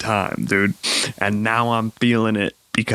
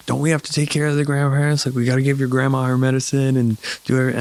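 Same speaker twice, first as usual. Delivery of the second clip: higher, fast, fussing wife voice; 3 semitones higher, faster than usual. Retold or imitated. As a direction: rattle it off like a worried wife. Quoting wife's worried reminder.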